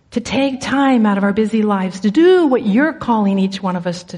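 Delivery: low, softening prayer voice; real confessional prayer before a congregation; earnest prayer. Real, not acted.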